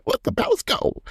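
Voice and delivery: high breathy whisper, imitating a cast member; mock high whisper.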